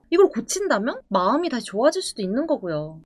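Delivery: ordinary talk, nothing marked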